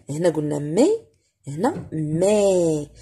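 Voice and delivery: "مي" said with an open è; open è sound. Shown as a demonstration. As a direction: open the vowel in "مي". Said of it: "لحقاش هنا اكسون غراف".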